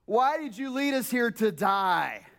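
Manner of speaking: slow, accusing lament; mildly mock the Israelites' complaint; complaining Israelites. Pastor quoting the Israelites to Moses, slow mild lament. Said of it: "complaining that takes place by the Israelites".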